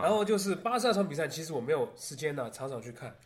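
Taiwanese Mandarin with a sing-song lilt; Taiwanese accent. Shown as a demonstration. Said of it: "这个传说中的台湾腔又出现咯".

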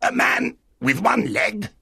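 high, slow, fearful question; very frightened castaway. Acted. Castaway fearing the one-legged man, frightened voice. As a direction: ask it in high-pitched dread. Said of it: "very frightened".

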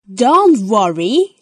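slow, kindly grandma voice; calm the children gently; Granny reassuring. Acted. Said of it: "says Granny Pig".

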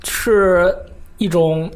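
slow, deadpan, wooden recital; wooden line reading. Pretend. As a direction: read it stiffly like bad acting. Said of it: "这个真的是棒读".

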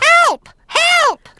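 parrot squawk. Acted. Parrot telling Granny Pig Grandpa needs help, squawking.

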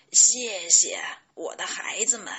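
put-on moved old grandfather giving thanks; deeply touched. A narrator's reading. Grandpa receiving the chicks' drawing, deeply touched. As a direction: thank the little ones from the heart. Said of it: "故事爷爷非常感动".

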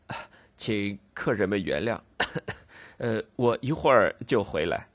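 hesitant, chuckling apologetic host; nervous Snagsby. Acted. Snagsby apologising awkwardly to his guests, hesitant and chuckling. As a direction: stammer an embarrassed excuse with little laughs.

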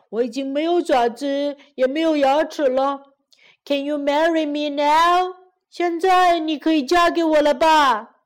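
mildly plaintive storybook lion; pitiful lion. Acted. Toothless lion begging the girl to marry him, mildly pitiful. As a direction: plead with a touch of self-pity. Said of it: "可怜巴巴地说".

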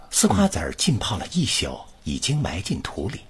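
flowing recital reading for the student to copy; model reading. Shown as a demonstration. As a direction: read it as one smooth connected sentence group. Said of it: "来，你跟老师读". (示范朗读)

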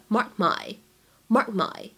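"mark my" with the k held back, unreleased; unreleased plosive. Shown as a demonstration. Teacher showing learners how to link "mark my", k unreleased. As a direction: stop the k in "mark" silently before "my". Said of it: "有一个不完全失去爆破".

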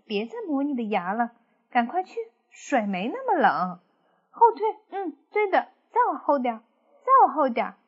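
a hint of a sly piglet giving orders; scheming pig voice. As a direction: hurry him into the water with fake friendliness. Character urging wolf into river.

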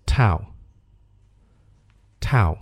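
towel as "tow", T joined to out; one syllable towel, rhyming with cow; linked pronunciation. Shown as a demonstration. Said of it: "这个O连读成". (towel 读成一个音节 tao，t 和 ou 连读)

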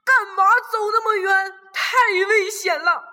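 mild angry father's yell; angry shout. Acted. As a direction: scold out of fear for the child. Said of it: "霸王龙生气地大叫起来".

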